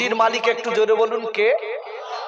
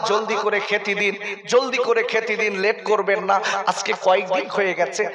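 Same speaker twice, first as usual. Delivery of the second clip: put-on children crying; 5 semitones lower, 6 dB quieter than usual. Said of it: "কেঁদে কেঁদে বলছে".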